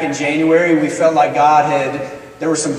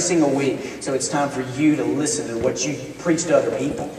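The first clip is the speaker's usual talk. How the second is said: low, softer heartfelt admonition; understated, lower and sincere; imitating earnest wife; 4 semitones lower, 5 dB quieter than usual. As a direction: voice a wife gently but firmly challenging him. Wife solemnly confronts her husband.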